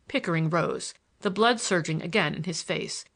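plain reading voice

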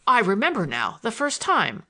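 loud sudden recollection; exclaiming. Acted. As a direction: burst out with the memory. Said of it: "I exclaimed".

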